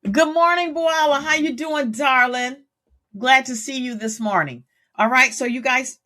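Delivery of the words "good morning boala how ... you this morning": warm, high, welcoming; bright confident greeting. Shown as a demonstration. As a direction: greet the room with presence. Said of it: "Which one would be more appealing to you?".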